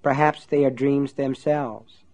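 thoughtful. Acted. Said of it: "then added thoughtfully".

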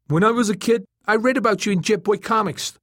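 very high, loud, eager turtle; the turtle, insistent. A narrator's reading. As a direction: remind him eagerly, pitched right up. Turtle's dialogue.

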